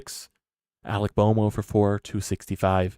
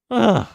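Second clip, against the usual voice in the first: high, loud disgusted groan; 11 semitones higher, 9 dB louder than usual. Real, not acted. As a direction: let out an anguished ugh. Fan's despair after the rant.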